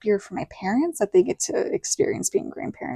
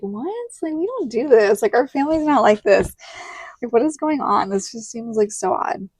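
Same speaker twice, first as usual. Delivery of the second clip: baffled disbelief; 3 semitones higher than usual. Retold or imitated. Her reaction to the speech.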